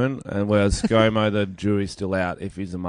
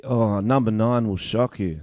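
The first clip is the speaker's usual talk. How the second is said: clickbait video narrator. Pretend. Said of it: "That was clickbaity".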